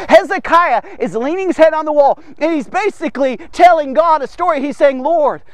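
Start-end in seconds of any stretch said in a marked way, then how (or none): 5.0-5.4 quick, insistent plea to God; mildly acted prayer, questions tumbling out; pouring out heart. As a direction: press each reminder on the Lord in a hurry. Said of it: "He's just pouring out his heart".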